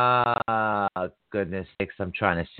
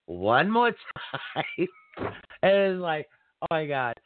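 laughing; 4 semitones higher than usual. Real, not acted. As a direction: break into a real laugh mid-sentence. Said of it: "I'm, I'm laughing".

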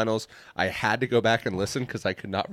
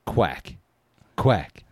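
duck voice; 7 dB louder, much slower than usual. Pretend. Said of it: "you start going".

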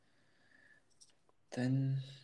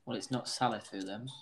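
quiet mumble; 2 semitones lower, 8 dB quieter, faster than usual. Real, not acted.

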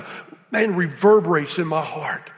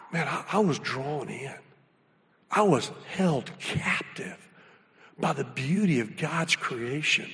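hushed awe; 4 semitones lower, 7 dB quieter than usual. Retold or imitated. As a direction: let it fall quiet as if still captivated. Awe at the sunrise.

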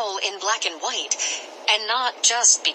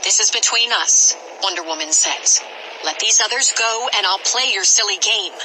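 firm heroine; 2 semitones higher than usual. Acted. Hero confronts villain.

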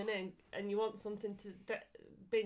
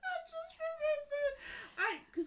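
laughing; slower than usual. Real, not acted. Laughing while telling story.

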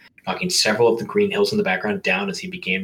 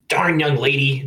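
put-on old lady voice; 5 semitones higher, 4 dB louder than usual. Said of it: "the elderly female Goomba commented".

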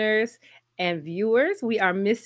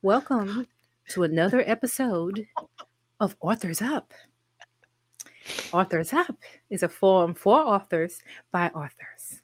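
host intro. Acted. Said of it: "let me get serious".

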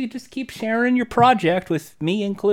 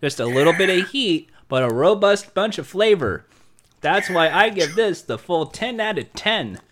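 talking while crunching chips; munch chips between words. Acted. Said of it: "that was so wonderful".

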